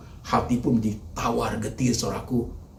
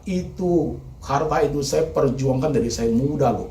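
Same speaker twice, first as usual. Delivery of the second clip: raised, pleading protest; anguished complaint; 5 semitones higher, 4 dB louder than usual. Acted. Preacher voicing a ruined man, raised pleading protest. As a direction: push it out like someone robbed. Grieving parent voiced complaint.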